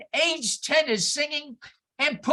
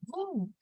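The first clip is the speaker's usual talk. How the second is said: quiet mock brrr; 4 semitones higher, 10 dB quieter than usual. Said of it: "I came up to Judy Hubbard and I said".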